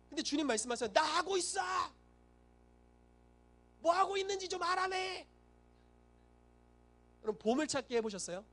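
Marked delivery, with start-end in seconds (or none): 0.9-5.3 hammed-up high, strained retort; exasperated Lord. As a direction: cry it out high, comically fed up. Acted exasperated reply from the Lord.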